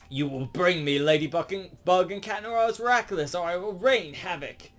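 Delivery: high, theatrical supervillain threat; villain ultimatum. Retold or imitated. Hawkmoth threatens all of Paris, theatrical villain.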